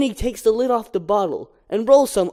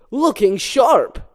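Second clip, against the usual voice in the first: Barry voiced; 4 semitones higher, 4 dB louder, slower than usual. Barry tests stinger.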